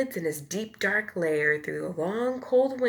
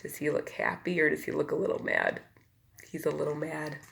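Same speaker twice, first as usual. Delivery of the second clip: lively bedtime storybook read; reading to children. A narrator's reading. Reader to children, lively storybook voice. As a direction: tell it like a picture book to little ones. Reads picture book aloud.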